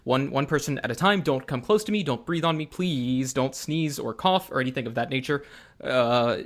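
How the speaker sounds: mildly frantic pleading, loud at the start; nervous physician keeping everyone at a distance; a touch of germ-fearing fluster. Acted. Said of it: "looks at all of you very frantically and says".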